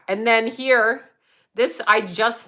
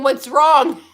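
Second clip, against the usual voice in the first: cooing through laughter; 4 semitones higher, 6 dB louder than usual. Retold or imitated. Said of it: "entertaining him going".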